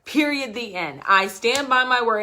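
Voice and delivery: annoyed founder insisting her clients profit; getting pissed. Retold or imitated. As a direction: stand your ground, irritated and loud. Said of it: "really pissed with this lady".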